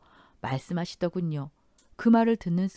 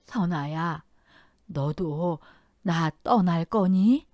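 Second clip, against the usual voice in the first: put-on trembling like a child; much slower than usual. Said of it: "아이처럼 떨리는 목소리로".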